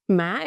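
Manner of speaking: "Má" with a quick upward pitch; "Má" in the rising sắc tone. Shown as a demonstration. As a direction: lift the pitch through "Má". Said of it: "it's a rising tone".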